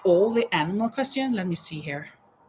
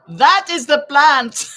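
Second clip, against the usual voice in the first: laughing through words; 3 semitones higher, 8 dB louder, slower than usual. Real, not acted. Laughing at contestant's answer.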